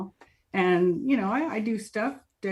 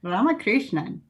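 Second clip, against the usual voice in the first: attempted Indian accent, badly faked; amateur imitation of an Indian accent; 3 dB louder than usual. Shown as a demonstration. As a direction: try the name in an Indian accent. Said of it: "In an Indian accent".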